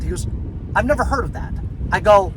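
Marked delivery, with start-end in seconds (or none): 0.7-1.5 higher-pitched imitation Australian accent; down under accent. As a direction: imitate a puzzled down-under clerk. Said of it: "in a down under accent".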